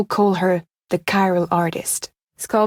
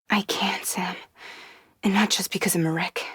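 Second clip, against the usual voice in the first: weary whisper; 6 dB quieter than usual. Acted. Exhausted, admitting weakness.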